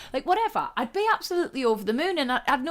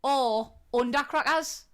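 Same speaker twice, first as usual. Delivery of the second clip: Geordie accent; slower than usual. Shown as a demonstration. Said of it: "in a Geordie accent".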